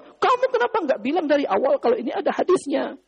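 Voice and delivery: high, mildly angry question; mild angry reproach. Retold or imitated. Jundub reproaches Hudzaifah for not citing the hadith, mildly angry. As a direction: reproach him, a touch heated. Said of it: "Jadi dia marah".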